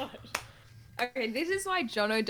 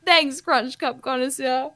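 radio ad character; 4 semitones higher, 3 dB louder than usual. Acted. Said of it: "two people in conversation".

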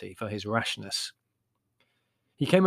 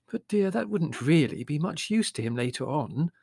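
higher-pitched, lightly voiced mother; Mother, gently objecting; 5 semitones higher than usual. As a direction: mildly object as a doubtful mother.

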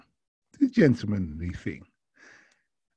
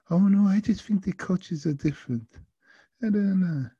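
high, doubtful mock French accent; attempted French accent; 10 semitones higher than usual. Passenger doubting driver's advice, high French accent. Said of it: "I will try my best".

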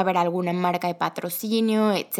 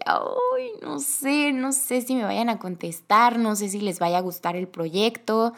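nervous self-quote; 2 semitones higher, slower than usual. Retold or imitated. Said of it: "yo estaba muy, muy nerviosa".

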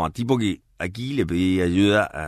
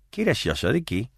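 respuesta parda; 4 semitones higher than usual. Acted. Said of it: "y se contesta".

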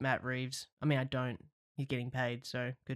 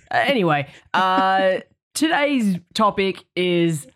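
laughing; 5 semitones higher, 9 dB louder than usual. Real, not acted. Laughing, announcing the topic.

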